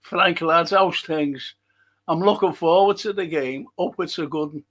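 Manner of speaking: put-on light Yorkshire accent read; a hint of Yorkshire, lads-style; mild Yorkshire accent greeting. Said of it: "good Yorkshire, uh, accent there".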